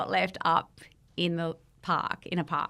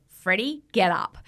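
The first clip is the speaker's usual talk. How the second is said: stern wake-up call; 2 semitones higher, 4 dB louder than usual. Retold or imitated. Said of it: "she just goes".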